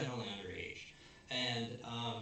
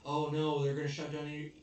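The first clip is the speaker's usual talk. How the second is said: mock panic; 3 semitones higher, 6 dB louder than usual. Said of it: "he's freaking out about all this".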